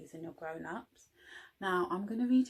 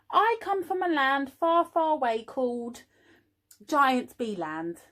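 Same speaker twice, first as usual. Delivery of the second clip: tall tale; 5 semitones higher, 6 dB louder than usual. Acted. Norman tells fib.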